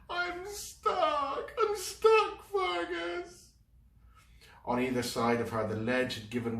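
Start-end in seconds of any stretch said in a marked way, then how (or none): 0.1-3.5 high tearful panic; panicked. Acted. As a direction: sob out that she is trapped. Sylvie panicking.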